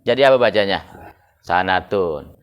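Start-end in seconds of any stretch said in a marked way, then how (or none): 1.4-2.4 "Sanatun" read with an open a on the sin, sa-na-tun; sanatun with a fathah. Shown as a demonstration. Teacher reading the word to students, clearly pronounced. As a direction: say "Sanatun" with a on the first letter. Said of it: "Ente mau baca sinnya patah".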